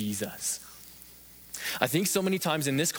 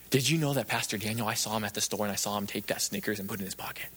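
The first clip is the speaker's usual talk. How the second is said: a lightly voiced gossip, lower and quicker; mock gossip; 4 semitones lower, faster than usual. Preacher imitating a churchgoer telling on the pastor, lightly mocked gossip. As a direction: drop it low and quick, like passing on gossip. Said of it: "not for us to go and go".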